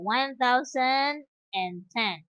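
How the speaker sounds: "one thousand and ten" slowly, every word clear; slow model reading. Shown as a demonstration. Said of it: "like that".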